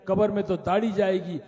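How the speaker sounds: half-acted irritation; retold angry retort. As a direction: snap back at the old man in mock anger. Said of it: "غصے میں تھا".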